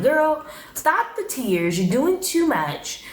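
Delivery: high, slow, sassy call-out; sassy scolding. Real, not acted. Talking to Christina on screen, a high sassy scold. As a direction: tell her off, drawn out and high.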